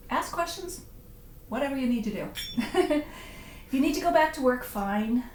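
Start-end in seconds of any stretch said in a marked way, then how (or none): 3.7-5.2 mock huffy. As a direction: pretend to be put out that they're leaving. Mock-offended at viewers leaving, then relents.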